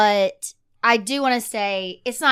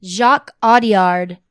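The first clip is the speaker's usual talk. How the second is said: announcer voice; 6 dB louder than usual. Pretend. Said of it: "This is my announcer voice for the Oscars".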